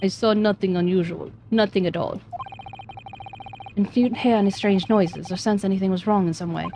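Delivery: put-on stiff Russian accent; defensive Russian sailor. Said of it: "Russian accent".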